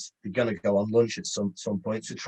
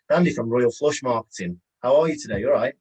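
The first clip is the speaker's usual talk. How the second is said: upbeat and chatty, a touch louder; friendly brief intro; 2 semitones higher, 4 dB louder than usual. Shown as a demonstration. Salesman greeting the decision maker, friendly and chatty. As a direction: open warmly and get them talking. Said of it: "I'd give you an example of how I, how I do it".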